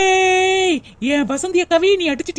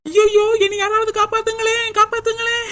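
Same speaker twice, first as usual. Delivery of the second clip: higher, pleading wail for help; crying for help; 5 semitones higher than usual. Acted. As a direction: beg someone to save her. (உதவி கேட்டு அலறுதல்)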